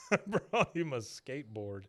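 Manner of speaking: laughing through the line; laughing repeat. Retold or imitated. Repeating Redcorn's skateboard line to co-host, laughing. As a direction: say it again, cracking up.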